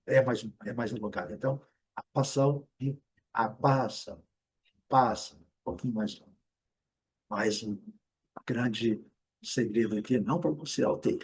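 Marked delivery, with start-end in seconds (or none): 1.9-5.4 apostle first short, then with drawn-out vowel; British then longer American. Shown as a demonstration. Teacher compares British and American, lengthened vowel demo. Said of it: "o americano seja um pouquinho mais alongado".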